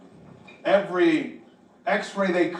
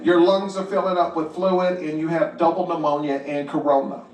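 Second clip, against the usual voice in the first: lightly voiced nervous doctor; hesitant, halting doctor; 4 semitones lower than usual. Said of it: "he was, like, nervous, and he goes".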